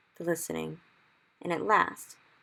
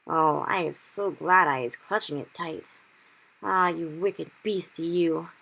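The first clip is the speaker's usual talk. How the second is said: slow, louder scolding of the beast; cried; 6 dB louder, slower than usual. Acted. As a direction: scold the nightmare slowly. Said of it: "he cried".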